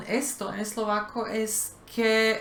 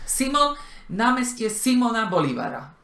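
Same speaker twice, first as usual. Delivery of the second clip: SI-mona BO-lívara, raised at the front; front-stressed Slovak Simona Bolívara; Slovak first-syllable stress; 3 semitones higher than usual. Shown as a demonstration. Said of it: "el acento se pone siempre en la primera sílaba".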